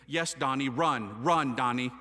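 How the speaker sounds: low, emphatic imitation of Mom; urgent urging. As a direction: mimic a mother sending her son off. Mother urges him to church.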